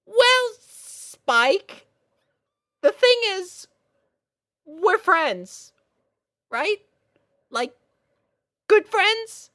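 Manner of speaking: put-on high, loud, nervous young girl voice; flustered little filly. Little sister confessing her crush to big sister, high and flustered.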